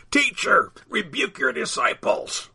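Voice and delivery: high, strained-up call; yell. A narrator's reading. Pharisee to Jesus before the crowd, high yell. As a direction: call out high so all can hear. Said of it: "one yelled to Jesus so all could hear".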